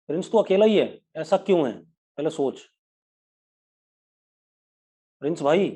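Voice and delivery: real reprimand, pitch jumping on the challenges; scolding. Real, not acted. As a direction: take one pupil to task, pointedly. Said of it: "एक बच्चे को डांटना पड़ेगा".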